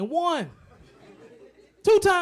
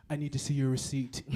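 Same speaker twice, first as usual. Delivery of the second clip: mock greeter; 10 semitones lower, 6 dB quieter than usual. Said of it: "Walmart greeter".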